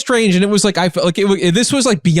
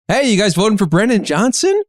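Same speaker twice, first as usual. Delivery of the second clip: friendly; 6 semitones higher than usual. Retold or imitated. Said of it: "This guy seemed friendly".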